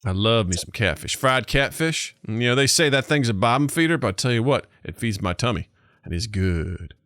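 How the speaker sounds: put-on folksy country American accent; Andy America accent. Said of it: "talking like that around the house".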